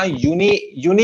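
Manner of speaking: यूनि said as one joined chunk; syllables run together. Shown as a demonstration. Teacher showing the mistake, यूनि run together. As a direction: join यू and नि without a break in यूनि. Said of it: "इकट्ठा नहीं है".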